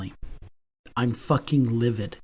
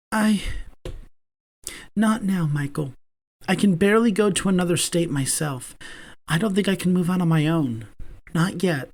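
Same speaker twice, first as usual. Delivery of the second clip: put-on higher voice of a shy young man, close to tears; Damon voiced; 6 semitones higher than usual. A narrator's reading. Damon's voice in narration.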